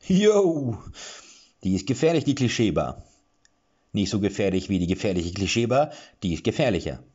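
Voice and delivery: high, loud dwarf starting, then calming down; rambling dwarf. A narrator's reading. Dwarf rambles about the dangerous bar, loud then settling. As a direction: babble a confused comparison.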